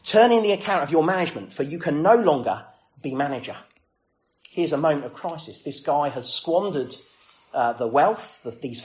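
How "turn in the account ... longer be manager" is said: louder, stern boss confronting his steward; a touch of an angry master calling him to account. Retold or imitated. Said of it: "he called to him and said to him".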